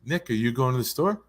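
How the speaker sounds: mom's casual question with "Nick, are you" run together; quick run-together question. Retold or imitated. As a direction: ask it quickly, words blending. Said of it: "say those two words fast".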